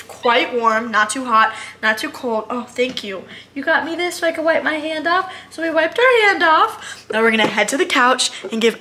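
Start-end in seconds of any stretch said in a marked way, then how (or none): none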